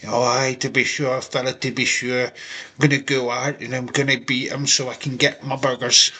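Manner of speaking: lightly put-on Irish accent; a hint of Irish lilt, fired up; Irish accent Sheamus. Sheamus fired up for his burgers, light Irish accent. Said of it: "Sheamus fired up, going".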